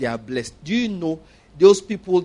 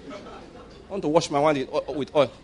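mocking scorn; 4 dB quieter than usual. Mocking the pastor's offer.

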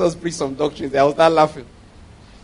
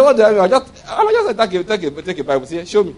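laughing acted retort; 2 semitones higher, 4 dB louder than usual. Acts exchange over doctrine, laughing.

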